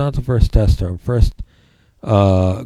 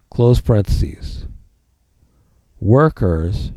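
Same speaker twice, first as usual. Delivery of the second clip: dictating. Shown as a demonstration. Dictating notes to the class.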